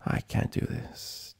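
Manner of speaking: breathless whisper, slow; whispered doubt. A narrator's reading. Twilight losing her nerve, whispered. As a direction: barely voice the fear.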